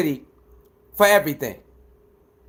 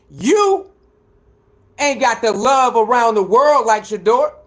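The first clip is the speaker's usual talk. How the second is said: heated rant; 2 semitones higher than usual. Real, not acted. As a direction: tear into the hater, rising with each point.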